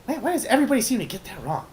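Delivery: high-pitched gnome yelling; loud, squeaky-high outburst from an offended gnome; indignant yell. Acted. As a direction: yell it high, then rush on exasperated. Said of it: "the gnome yells out".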